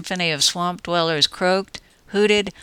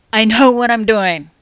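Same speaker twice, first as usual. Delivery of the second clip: snapped; 5 semitones higher, 8 dB louder than usual. Acted. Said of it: "he snapped".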